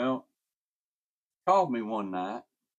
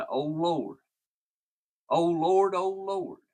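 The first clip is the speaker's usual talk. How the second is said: retold terrified cry; 8 semitones higher, 6 dB louder, slower than usual. Dying man cries out in terror.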